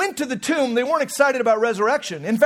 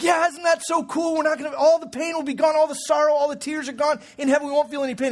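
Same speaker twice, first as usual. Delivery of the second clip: enthusiastic dad; 3 semitones higher than usual. Retold or imitated. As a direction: sell the wonder of heaven to a child. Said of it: "And I was like".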